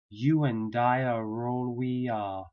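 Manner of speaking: "You and I are all we are" slowly, with w and y glides; linked vowels. Shown as a demonstration. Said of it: "intrusive sounds".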